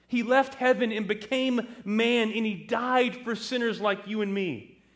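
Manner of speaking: high, earnest, insistent son; fervent testimony. Acted. Son explains Jesus to Mom and Dad, fervent. Son preaches to his parents.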